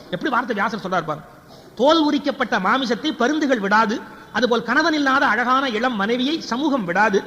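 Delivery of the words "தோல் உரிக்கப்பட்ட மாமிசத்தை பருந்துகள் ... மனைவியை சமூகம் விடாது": emphatic, measured epic declamation; declamatory recitation. Acted. Storyteller quotes Vyasa's simile to the audience, declaiming. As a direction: proclaim each phrase with rising force.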